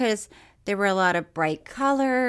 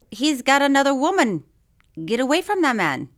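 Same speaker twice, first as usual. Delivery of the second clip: Miss Cleo reading; 5 semitones higher, 4 dB louder than usual. Retold or imitated. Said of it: "And she's like".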